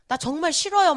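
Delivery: mildly whiny mock grumbling; grumbling complaint. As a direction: grumble like a sulky prophet, lightly acted. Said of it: "막 이러면서 투덜거리면서".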